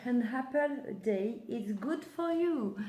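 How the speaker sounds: slow, careful English with a French accent; French-accented English, read out slowly; attempted English accent. Real, not acted. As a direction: try your best English accent, drawing out the end. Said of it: "j'essaie d'avoir un super accent".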